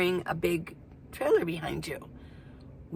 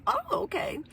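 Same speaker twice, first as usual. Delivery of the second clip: laughing reply; 4 dB quieter than usual. Retold or imitated. Chatting with new park friend.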